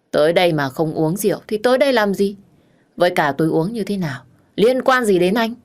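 put-on drunken back-talk, rising at the end; defiant retort. Drunk woman telling the man it's none of his business, defiant.

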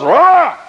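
loud, high roar; hammed-up lion roar; mock lion roar. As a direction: roar like a lion about to pounce. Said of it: "he goes".

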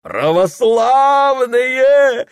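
very high, loud, drawn-out call; bellowing appeal. Acted. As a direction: call out to the whole crowd. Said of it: "орёт мужик".

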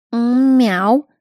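a cat's mew from a grown man; lightly voiced meow, cheeky. A narrator's reading. Necromancer asks who he is, man answers with a mild meow. Dead count answers as a cat.

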